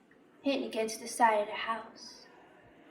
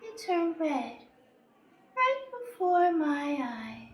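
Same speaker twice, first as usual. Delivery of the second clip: low, hushed storytelling; quiet confession; 4 semitones lower, 8 dB quieter than usual. Acted. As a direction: confide a dark secret, softly. Dark confession opens the monologue.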